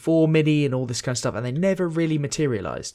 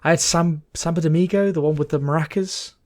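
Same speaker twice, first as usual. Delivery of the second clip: put-on Mexican accent; 4 semitones higher than usual. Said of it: "Did you just try doing a Mexican accent?".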